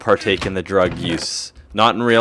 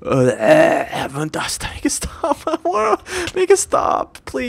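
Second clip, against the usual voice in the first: queasy; slower than usual. Pretend. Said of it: "You're suffering".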